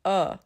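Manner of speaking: UH said short and neutral, mouth relaxed; a little uh from the middle of the mouth; neutral schwa. Shown as a demonstration. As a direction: say uh with no shape at all. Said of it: "the neutral little uh".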